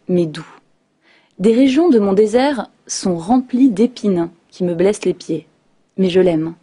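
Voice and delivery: measured poem recitation with pauses between lines; poem reading. Acted. Radio guest reads a prisoner's poem to listeners, measured recitation. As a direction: read it as verse, phrase by phrase.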